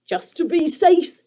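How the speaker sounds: high, slow creature voice; a sly little goblin making sure; creaker voice. A narrator's reading. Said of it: "Sniff said".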